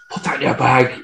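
softly imitated sneaky aside; hushed comic conspiracy; mock furtive hush. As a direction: pretend to slip a secret instruction. Repeats the furtive stealing joke.

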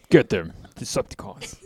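Megatron voice. Retold or imitated. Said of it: "I'll be like, uh, Megatron".

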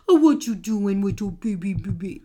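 put-on cooing silly baby talk. Shown as a demonstration. Parent demonstrating silly talk to a baby, cooing. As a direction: coo at an imagined infant. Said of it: "we make silly sounds like".

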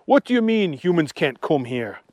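lively puzzled Archie voice. Acted. Archie telling Agnes the town is strange, puzzled. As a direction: wonder aloud as Archie. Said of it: "said Archie".

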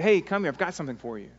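quick, lightly eager invitation; joyous coaxing. Acted. Father calling his son over from his toys, joyous coaxing. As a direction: coax with a happy offer. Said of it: "kind of a joyous desire to bless".

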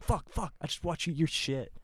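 high-pitched panicked yelp; mock freak-out. To a shit-eating dog, mock panicked high yelp. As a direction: act grossed out and panicking. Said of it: "you just start freaking out".

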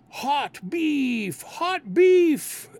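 high, loud street-seller cry; hawker's shout. Retold or imitated. Poor people confuse police, loud high hawker cry. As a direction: call it out like selling sandwiches. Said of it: "some people would start yelling out".

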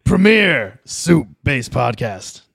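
slow booming radio host. Pretend. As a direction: drag out the radio announcement. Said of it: "be Alex Jones".

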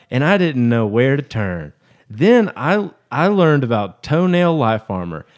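a hint of an old lady; old woman voice. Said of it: "I did kind of an old woman voice".

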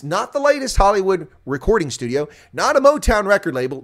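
loud mock-grand denial; dramatic loud build. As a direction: boom it like a trailer voice. Dramatic scandal introduction.

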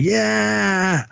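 hooting like the soldiers celebrating; mock hoot. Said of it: "They're all hooting and hollering".

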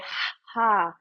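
throaty fogging exhale; ocean throat breathing. Shown as a demonstration. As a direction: breathe out through a tight throat. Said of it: "I constrict the back of the throat and I say".

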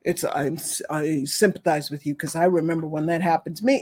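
a hint of a self-absorbed sympathizer; lightly voiced pitying friend; mock sympathy. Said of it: "don't sympathize either".

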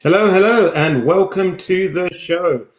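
big, bright host hello; loud welcoming hello; loud show greeting. Acted. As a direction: call it out to open the show.

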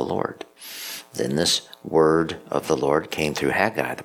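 measured liturgical reading; scripture reading. Acted. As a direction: read it like scripture at mass.

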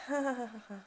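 soft, forced polite laugh; fake laugh. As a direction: fake a laugh at an unfunny joke. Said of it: "I'm not good at fake laughing".

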